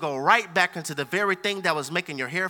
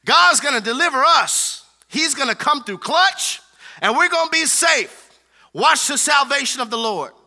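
louder, rallying reassurance to the crowd; rally them, sure God will come through; confident Moses; 4 semitones higher, 4 dB louder than usual. Retold or imitated. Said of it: "And Moses is like".

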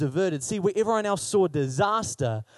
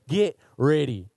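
slower, louder and fuller call-out; 3 semitones lower, slower than usual. Shown as a demonstration. Preacher urging the congregation, a slower, louder call. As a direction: say it like you mean it, out loud. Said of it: "That's way better".

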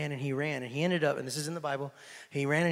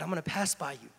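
hushed God voice; 5 dB quieter, faster than usual. Acted. Preacher voicing God telling Elijah he will pass by, hushed. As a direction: say it quietly, almost to yourself. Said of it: "the Lord said, God said".

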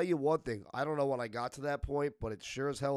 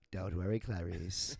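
Hannibal Lecter impression; 5 semitones lower, slower than usual. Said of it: "Silence of the Lambs".

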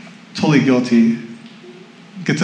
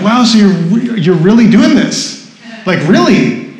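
mildly amazed, slightly raised questioning voice; incredulous onlookers; 4 semitones higher than usual. Retold or imitated. People questioning the speaker's decision, incredulous. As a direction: imitate people who can't quite believe it. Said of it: "people would see us and they're like".

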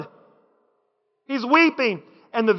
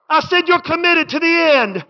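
preacher shouting to the crowd; shouted repeat; 5 semitones higher than usual. Real, not acted. Preacher shouting the line again to the church. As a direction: call it out to the congregation.

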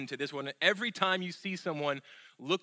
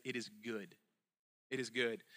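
soft voice of God; 4 semitones lower, 9 dB quieter than usual. Acted. God's verdict voiced softly.

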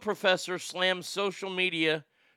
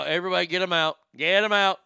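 rising mock urgent shout; calling out; 6 dB louder, much faster than usual. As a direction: call it out louder each time. Calling out at derailment video.

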